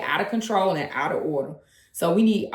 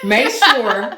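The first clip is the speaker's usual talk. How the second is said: deliberate, louder restart with amusement; slower; 4 semitones higher, 7 dB louder than usual. Shown as a demonstration. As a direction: spell it out slowly for your co-host. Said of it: "Let me say it a little slower".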